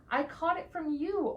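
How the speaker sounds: grumpy. Acted. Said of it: "oinked the duck".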